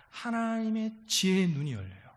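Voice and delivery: normal talking voice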